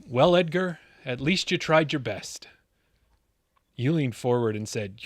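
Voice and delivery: movie-trailer style storytelling with swelling emphasis; dramatic origin-story narration. Acted. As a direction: narrate a mock-epic tale, building suspense.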